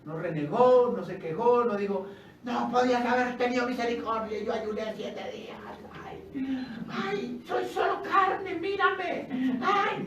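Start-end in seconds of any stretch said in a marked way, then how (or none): 2.4-10.0 high, whiny mock lament with sighing ays; mock whining complaint. Preacher mocks the complaint David never made, in a high whiny wail. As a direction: whimper it like a self-pitying mourner. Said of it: "no, nada de eso".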